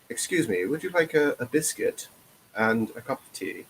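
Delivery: lightly put-on polite British accent, crisp and pronounced. Shown as a demonstration. Showing how real British spoke, polite pronounced British accent. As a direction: offer tea the proper old British way. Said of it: "Because it's very pronounced".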